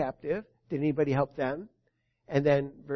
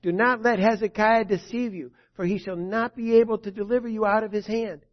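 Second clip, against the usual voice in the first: higher and louder, a herald's cry; loud proclamation; 3 semitones higher, 4 dB louder than usual. Acted. Rabshakeh crying out to the people of Jerusalem, loud proclamation. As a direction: call out to the walls of the city. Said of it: "Rabshakeh cried with a loud voice".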